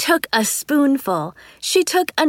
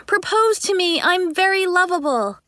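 mock pleading; 7 semitones higher than usual. Mocking imagined teacher voice.

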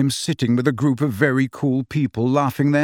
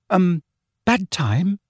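put-on nervous girl; 6 semitones higher, slower than usual. A narrator's reading. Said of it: "said a nervous voice".

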